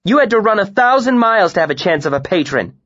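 very loud, high furious rant; sustained shouted scorn; furious tirade. A narrator's reading. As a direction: tear him down.

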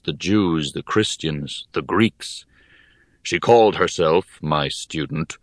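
put-on low, calm old mentor; wise old teacher voice. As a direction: speak like a grave old sage. Cairpray speaks, low voice.

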